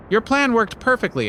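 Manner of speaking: high, bright-eyed relief after hard work; high exhausted triumph. A narrator's reading. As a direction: squeak it out as you flop down. Exhausted Anansi collapsing.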